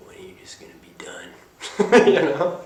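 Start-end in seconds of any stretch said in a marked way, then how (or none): 0.1-1.3 whispering. Retold or imitated. Mocking inner voice impatient. 1.3-2.0 loud sudden laugh; burst of laughter. Real, not acted. Laughs at own quote.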